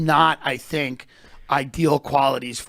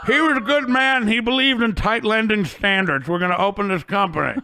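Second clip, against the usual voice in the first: funeral speech; 3 semitones higher than usual. Retold or imitated. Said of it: "Bob then walks around at his funeral and goes".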